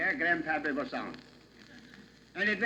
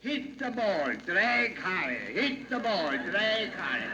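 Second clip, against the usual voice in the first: laboured refrain; slower than usual. Acted. Acting out the laboured round of golf.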